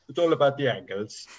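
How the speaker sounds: unplaceable attempt at a Romanian accent; muddled foreign accent. Retrying the arm-wrestler's line, muddled Romanian accent. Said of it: "I don't even know what that accent is".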